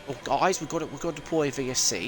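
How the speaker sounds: mock Australian that comes out British; failed Australian accent. Streamer mocking an Australian race director, failed Australian accent. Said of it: "When I try to make fun of Australians, I sound British".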